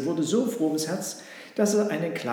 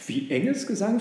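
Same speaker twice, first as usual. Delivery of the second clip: high, puzzled echo question; taken aback, with raised pitch; baffled; 6 semitones higher, 4 dB louder than usual. Acted. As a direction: repeat it in astonishment. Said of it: "fragte das Schaf verblüfft".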